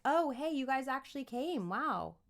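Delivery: bored, casual greeting; flat unimpressed kid. Shown as a demonstration. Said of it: "You're not gonna be like".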